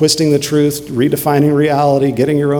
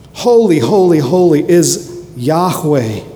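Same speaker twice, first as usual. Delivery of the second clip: exalted cry; 3 semitones higher than usual. Acted. Preacher voicing the seraphim's cry.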